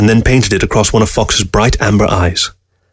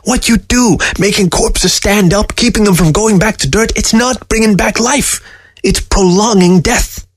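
much higher, scornful and slow; 11 semitones higher than usual. A narrator's reading. Fox scorning the taxidermist's work, scornful and high. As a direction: lecture the old man with disdain. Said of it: "Fox's voice was scornful".

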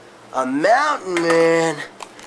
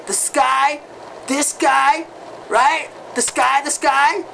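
excited stoner rant; 3 semitones higher than usual. Acted. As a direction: get more and more worked up over the sky. Stoner rocker rants about sky.

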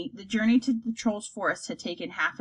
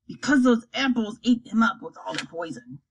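troll voice. Acted. Troll Slop explaining.

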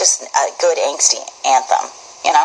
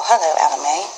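regal British greeting, lightly done; British accent. Shown as a demonstration. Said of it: "That's, like, pretty regal".

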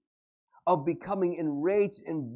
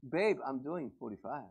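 softer, lower sweet reply; nicely; 4 semitones lower, 4 dB quieter than usual. Acted. Husband answers wife nicely, soft and sweet. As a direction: say it gently to your wife. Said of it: "you tell it nicely".

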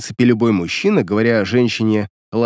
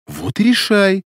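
gentle, higher-pitched answer; soft-spoken reply; 7 semitones higher than usual. A narrator's reading. Светлана answering angry Демин, speaking softly. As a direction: let him go gently, without heat. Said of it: "сказала Светлана мягко".

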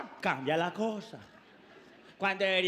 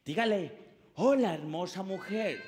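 romantic Cyrano; 2 semitones lower than usual. Retold or imitated. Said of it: "Cyrano todo romántico".

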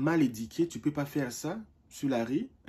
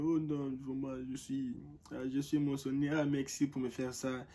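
moved to tears; 6 dB quieter than usual. Retold or imitated. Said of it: "tu pleures".

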